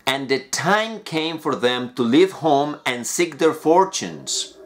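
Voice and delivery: slow, clear storybook reading; measured fairy-tale narration; story reading. Acted. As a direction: read it like a bedtime story for learners.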